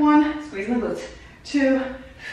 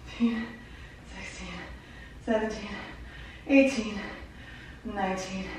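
out of breath; slower than usual. Real, not acted. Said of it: "Well, I'm out of breath, so it's hard to count".

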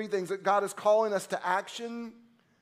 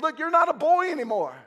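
put-on Paul to young Timothy, fervent encouragement; Paul urging Timothy; 3 semitones higher than usual. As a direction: build him up like a father. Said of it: "grabbing him by the shoulders and saying".

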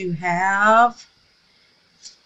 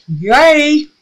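a bright little yay, higher and louder; real happy cheer; 6 semitones higher, 8 dB louder than usual. Real, not acted. Crafter cheering her filled cherub mold, excited yay.

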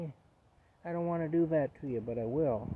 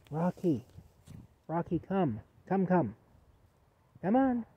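high raised call; 3 semitones higher, 4 dB louder than usual. Real, not acted. Owner coaxing stubborn dog Rocky, high raised call.

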